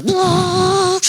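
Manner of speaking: high, excited whoop of a joyride; thrilled whoa. Retold or imitated. Husband enjoying twisty roads, whooping excitedly. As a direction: cry out with driving thrill.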